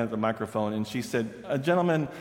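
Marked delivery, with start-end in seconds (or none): 1.5-2.1 light Southern belle; Southern accent. Retold or imitated. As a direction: sweetly press the old man. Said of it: "the young woman from the South".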